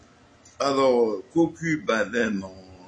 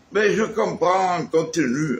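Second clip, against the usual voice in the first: put-on slipping into a Marseille accent; light mock Marseille accent; 3 semitones higher than usual. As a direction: borrow your partner's Marseille accent. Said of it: "tu prends mon accent maintenant".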